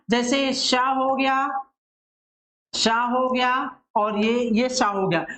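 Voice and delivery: each शा said slowly and deliberately; careful articulation. Shown as a demonstration. Teacher demonstrating each शा's place in the mouth. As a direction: linger on शा to show where it is made. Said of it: "इनका उच्चारण स्थान पहले आप एक बार".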